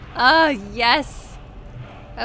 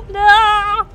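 very loud, high battle cry; frantic yell; 8 semitones higher, 11 dB louder than usual. Real, not acted. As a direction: shout it at the screen mid-fight. Frantic fight moment.

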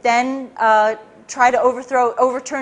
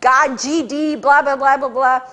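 a hint of a boss screaming and raving; mock ranting boss. Boss ranting at his agent, a mild mock yell. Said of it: "screaming, ranting and raving".

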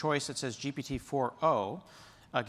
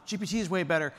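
slightly raised imitation of an online fan; lightly mock an opinionated forum poster; mock Reddit user; 4 semitones higher, faster than usual. Reddit user defending a favourite model, mock insistence. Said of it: "I don't know how Reddit people talk".

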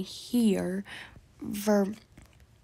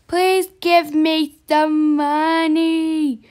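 drawn-out begging; 3 semitones higher, 3 dB louder, slower than usual. Pretend. Beggar pleading for money.

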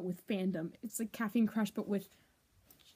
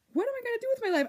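despairing; 12 semitones higher, much faster than usual. Real, not acted. Dramatic despair.

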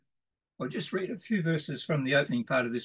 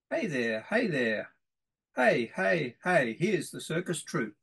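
put-on lively sing-song reading of a children's verse; poem reading. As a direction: read it bouncy, like calling a crowd to the circus. Reads children's circus poem.

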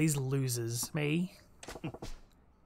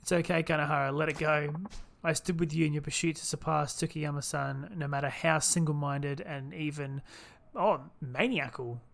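soft-voiced comforting friend; 4 dB quieter than usual. Gamer reading a friend's lines to Kanahara, lightly voiced and gentle. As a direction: read it like a soothing companion letting go. Voicing game dialogue as character.

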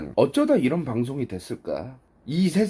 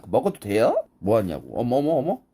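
ordinary talk, nothing marked

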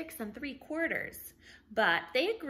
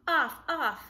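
rising, louder off off, floating away; drawn out off, off; 5 semitones higher, 5 dB louder than usual. A narrator's reading. Narrator reading to kids, drawn-out floating voice. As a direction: let the words drift up and away. Balloon drifting far away.

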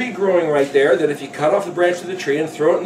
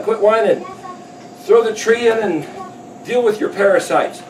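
higher, mildly fed-up retort; exasperated scolding; 4 semitones higher than usual. Retold or imitated. Yahweh to whining people in the desert, exasperated. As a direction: give in with mock impatience.

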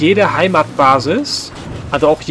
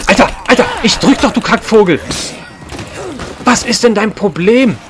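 angry shouting; 7 semitones higher than usual. Real, not acted. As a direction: yell furiously at the enemy. Raging at the game.

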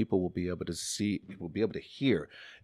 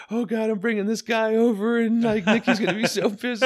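put-on 1 high girlish voice; 9 dB louder than usual. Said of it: "I was like".

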